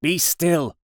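high, urgent plea for silence; imploring. A narrator's reading. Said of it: "I implored".

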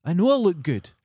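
cocky comeback, mockingly re-enacted; retold boast. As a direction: imitate someone boasting, pushed high and loud. Mimicking girl's conceited reply.

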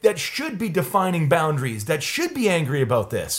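high-pitched, softened urging; lightly acted earnest coaxing; Mister Rogers. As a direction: gently press someone to find their anger. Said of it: "Mister Rogers is like".

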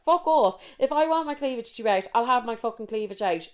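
high, heated clap-back; indignant retort. Retold or imitated. Woman answering the friend's cleavage comment, in a high indignant voice. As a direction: let rip in outrage, then settle.

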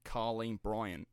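lightly imitated Australian reporter; a hint of Australian newsreader; Australian newsreader accent. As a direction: say the name with a touch of an Australian news accent. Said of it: "hearing the Australian news reporters saying".

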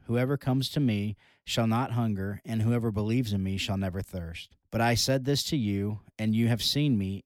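measured, solemn Bible reading; scripture reading. Acted. Host reads the gospel passage to listeners in a solemn reading voice. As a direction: read the gospel passage with reverence. Reads John chapter six aloud.

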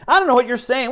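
high-pitched protest; mock bewildered denial. Peter denying he is from Galilee, mock bewildered.

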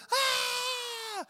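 put-on high shrieking kid's scream; child's scream. Child in the basement screaming at a spider, high shriek.

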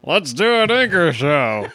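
teeth clenched. Shown as a demonstration. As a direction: talk through clenched teeth. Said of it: "with your teeth closed".

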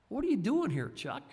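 high and loud, the Lord calling him by name. Shown as a demonstration. Preacher voicing the Lord questioning him by name, high and loud. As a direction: call the question out sharply, like God catching you. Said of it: "Just put your own name in there".

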